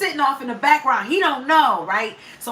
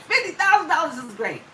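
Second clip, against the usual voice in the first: mildly raised, mimicked delight; excited husband; 4 semitones higher than usual. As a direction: retell the husband's excitement, a little higher. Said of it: "so, so excited".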